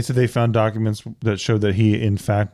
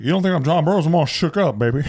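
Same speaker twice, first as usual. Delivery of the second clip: higher, laughing rock-and-roll croon; impression of a singer; 5 semitones higher than usual. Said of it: "He's like".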